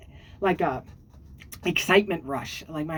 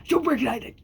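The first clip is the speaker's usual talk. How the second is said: higher, squeaky put-on voice; squeaky silly voice; 5 semitones higher than usual. Shown as a demonstration. Vlogger showing off a silly voice to viewers, high squeak. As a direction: pop it up into a cartoonish squeak. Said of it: "yes, that's my voice".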